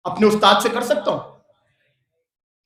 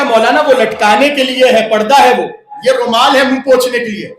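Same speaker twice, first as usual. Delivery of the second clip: louder, laughing as the audience answering; laughing mock reply; 3 semitones higher, 6 dB louder than usual. Preacher voicing the congregation's answer, laughing and louder. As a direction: play the listeners answering with a laugh.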